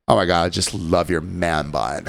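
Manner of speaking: hammed-up swoon over the hair; flirty woman. The flirty customer teasingly admiring the bartender's man bun.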